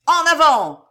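high, loud rallying yell; bellowed battle cry. A narrator's reading. Cato defying the officer, bellowed charge. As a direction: roar the charge. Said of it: "vociféra Cato".

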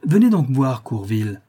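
cold, sharp command; cold cutting voice. Acted. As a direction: cut through the silence like a blade. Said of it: "une voix froide, coupante, tranchante comme une lame".

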